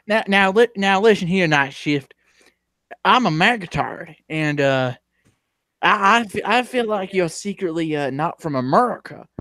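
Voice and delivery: lightly hammed-up southern indignation; angry southern character. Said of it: "the angry southern".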